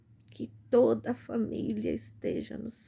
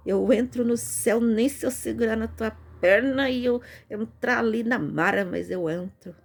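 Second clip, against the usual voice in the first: joking; 2 semitones higher, 6 dB louder than usual. Retold or imitated. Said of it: "Falei, brincando, zoando com ela".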